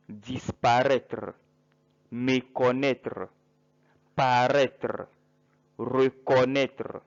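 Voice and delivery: slow careful list of French verbs; careful French pronunciation. Shown as a demonstration. Teacher reads verb list to students, slow careful French. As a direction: spell out each verb slowly for learners. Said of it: "So these are the verbs first".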